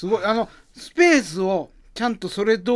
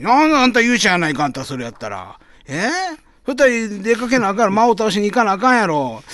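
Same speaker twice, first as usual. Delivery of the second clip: loud nosy osaka auntie; 4 semitones higher, 4 dB louder than usual. Acted. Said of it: "始まりの街というネタ".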